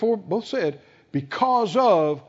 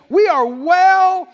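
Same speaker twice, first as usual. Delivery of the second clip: bold declaration; 10 semitones higher, 6 dB louder than usual. Retold or imitated. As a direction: declare it with full confidence. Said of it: "Caleb said".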